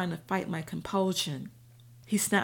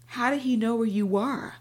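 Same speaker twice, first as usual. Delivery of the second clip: jumping in; 4 semitones higher, 5 dB louder than usual. A narrator's reading. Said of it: "Saju jumped in".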